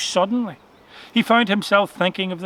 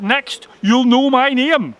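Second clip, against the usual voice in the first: sarcastic shout; 7 semitones higher, 4 dB louder, slower than usual. A narrator's reading. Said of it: "shouted Mister Rabbit".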